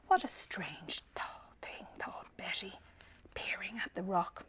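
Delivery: whispered puzzling; soft curious whisper; hushed wonder. Acted. Betty puzzling quietly.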